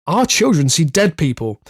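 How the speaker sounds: slow spooky headline read. Acted. Rob reading a Halloween headline to the host, slow spooky read. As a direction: read it out like a ghost story. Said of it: "the headline is".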